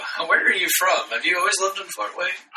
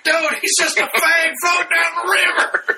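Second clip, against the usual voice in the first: mock call-out. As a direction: call out to the crowd, laughing. Calling out to bear onlookers.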